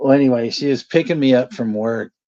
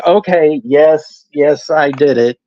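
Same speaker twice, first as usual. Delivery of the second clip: mom admitting; 2 semitones higher, 5 dB louder, slower than usual. Retold or imitated. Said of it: "she's like".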